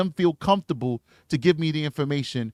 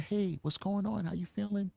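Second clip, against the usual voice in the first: higher and softer, friendly and light; higher, gentle greeting; an octave up; 5 semitones higher, 10 dB quieter than usual. Shown as a demonstration. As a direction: lift the voice up high to sound harmless. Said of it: "I gotta bring an octave up".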